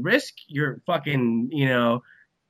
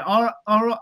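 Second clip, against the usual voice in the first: higher-pitched mock Australian; amateur Aussie impression; attempted Australian accent; 7 semitones higher, faster than usual. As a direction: have a rough go at an Australian accent. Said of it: "trying to do an Australian accent".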